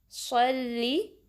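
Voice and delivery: सल्ली slow, the स full and heavy; slow careful recitation; heavy sad. Shown as a demonstration. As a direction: say सल्ली with a heavy स and a short sharp ली. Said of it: "सौत को पुर पढ़ना है".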